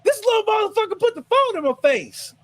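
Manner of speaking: high put-on voice blaming the kid; mock blaming woman. Driver blaming her son to the car owner, high mock voice. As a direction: squeal the blame onto the kid. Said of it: "continues the woman's quote".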